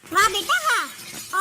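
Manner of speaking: drawn-out mocking bravo; sarcastic praise. Mother mocking son who sided with wife, sarcastic praise. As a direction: stretch each word in mock applause.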